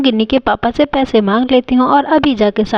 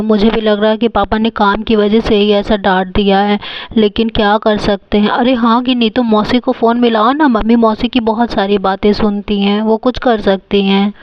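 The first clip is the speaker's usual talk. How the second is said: lightly voiced older brother; 2 semitones lower than usual. Brother planning with his sister, lightly voiced boy.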